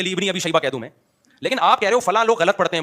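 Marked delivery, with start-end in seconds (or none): 0.0-0.6 لابن misread as "li-ibni"; example slip. Shown as a demonstration. Teacher admitting he could err, sample misreading. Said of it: "مجھ سے بھی غلطی ہو سکتی ہے".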